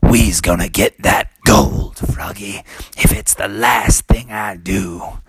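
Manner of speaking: a touch of determined country dad; good old boy. Acted. Frog dad vows to get the gold, good old boy voice. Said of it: "good old boy".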